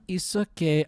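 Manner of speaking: half-hearted attempt at an Icelandic accent; bad Icelandic accent. Pilot soothing his helicopter passengers, poor Icelandic accent. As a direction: imitate a reassuring Icelandic pilot's accent, badly. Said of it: "I can't do an Icelandic accent".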